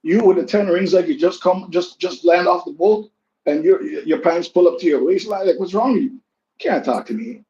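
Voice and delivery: high, loud heated retort at the barber; heated comeback. Retold or imitated. Retelling telling off the chatty barber, high and heated. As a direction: go off on him, rising and loud.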